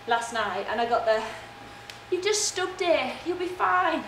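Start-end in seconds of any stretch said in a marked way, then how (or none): 2.1-4.0 slow, lightly mocking reassurance; a hint of a dismissive partner; imitating partner. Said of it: "it's your imitation of me?".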